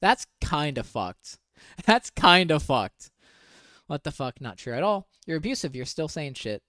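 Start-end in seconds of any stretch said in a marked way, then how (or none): 1.9-3.1 slow, louder, laughing through it; laughing repeat. Real, not acted. Repeating her verdict to viewers, laughing. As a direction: laugh it out in disbelief.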